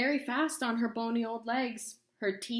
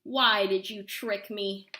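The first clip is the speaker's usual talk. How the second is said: angry demand; 6 dB louder, slower than usual. Acted. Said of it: "yelled Bony Legs".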